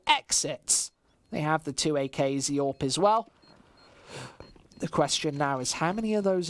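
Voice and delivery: esports caster calling the action; live play-by-play. Acted. Caster calling the round for stream chat, live play-by-play. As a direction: keep the round flowing, rising with the fights.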